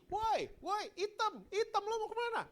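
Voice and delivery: very high taunting holler; high-pitched schoolyard yell; bully's repeated shout. Retold or imitated. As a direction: imitate a kid yelling after someone. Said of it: "Diteriakin lagi".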